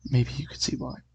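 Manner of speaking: whispered creepy host voice; a whispering ghoulish storyteller; creep voice. Shown as a demonstration. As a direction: hiss it like a horror host. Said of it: "that's the creep talk".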